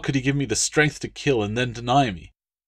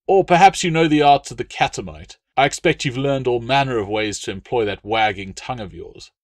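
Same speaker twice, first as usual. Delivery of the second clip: sneering insult; 3 semitones higher, 5 dB louder than usual. Acted.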